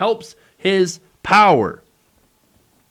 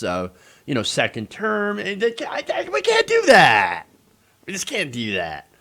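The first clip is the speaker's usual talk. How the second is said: mock the old excuse, sarcastic; mocking Republicans.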